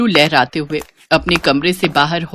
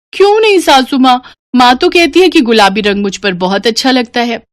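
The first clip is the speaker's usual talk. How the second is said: much higher, whiny protest; surprised bride; 5 semitones higher than usual. Acted. Bride protesting to mother-in-law, high whiny plea. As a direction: plead why not.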